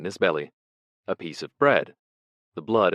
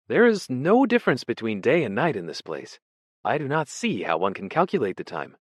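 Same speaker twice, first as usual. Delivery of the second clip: high, loud, fluttery scholar's voice; a vague, startled prisoner greeting an old colleague; nervous poet; 6 semitones higher, 5 dB louder than usual. Acted. Ampleforth greets Smith in the cell, high and startled.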